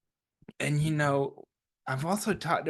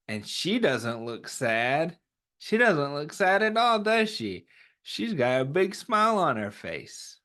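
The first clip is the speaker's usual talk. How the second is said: put-on reading to children. Teacher reads the picture book aloud to the class, gently. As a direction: read it like storytime for little ones.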